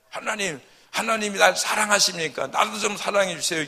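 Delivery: high, loud sulking plea; whiny crying out. Retold or imitated. A believer sulking and crying out to God for love. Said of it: "부르짖고 투정할 때마다".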